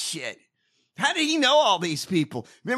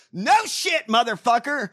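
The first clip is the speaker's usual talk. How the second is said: channelling a screaming rant; 3 semitones higher, 3 dB louder than usual. Pretend. Host channelling a bellowing actor at his party, booming rant. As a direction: let it rip like a bellowing old actor. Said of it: "Channel Brian Blessed".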